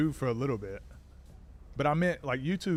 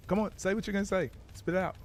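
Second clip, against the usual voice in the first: quick, higher, pushing someone to hurry up; impatient mock urging; 6 semitones higher, faster than usual. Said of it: "I'm like".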